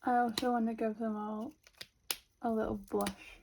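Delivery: talking around a pen in mouth. Real, not acted. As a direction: speak with a pen held in mouth. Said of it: "Sorry, I've got a pen in my mouth right now".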